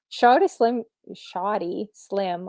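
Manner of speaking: SHAWTY with an open AW and no R; reading out a name. Real, not acted. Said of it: "I say Shawty".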